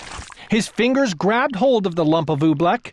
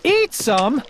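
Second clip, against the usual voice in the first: a light gasp of disbelief; shocked, rising question; 5 semitones higher than usual. Acted. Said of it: "gasped Bartholomew".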